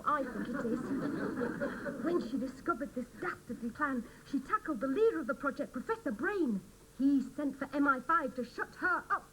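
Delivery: lightly mock news-report read; reading her news story. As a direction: try out the scoop like a broadcast. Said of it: "How does this sound, Julia?".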